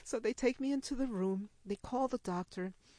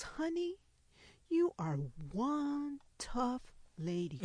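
doting nurse; 4 semitones higher, slower than usual. Retold or imitated. Nurse addresses patient.

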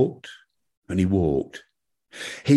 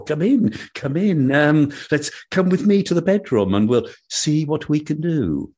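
flirty devil's wife; 3 semitones higher than usual. Acted. Devil's wife invites him in.

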